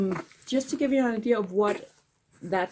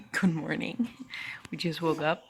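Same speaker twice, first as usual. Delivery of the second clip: whispering; 8 dB quieter than usual. Real, not acted. Early morning, husband asleep.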